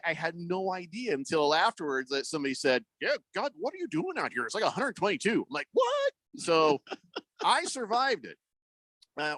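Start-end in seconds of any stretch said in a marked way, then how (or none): 3.0-5.5 high-pitched exasperated disbelief; incredulous. Retold or imitated. Acquaintance warning a driver out in extreme heat, incredulous. Acts out someone's shocked warning. 5.7-6.1 very high yelp of disbelief; shocked. Retold or imitated. Driver learning the real temperature, shocked. Acts out his shock at news.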